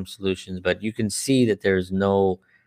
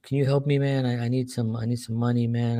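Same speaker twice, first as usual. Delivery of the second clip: higher, softer begging; addict asking for money; 4 semitones higher, 4 dB quieter than usual. Retold or imitated. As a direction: ask an old friend for cash. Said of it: "he's like".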